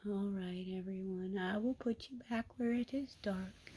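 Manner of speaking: soft unvoiced whisper. Real, not acted. Whispering to the kittens while putting them back. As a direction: hush them back into the dark.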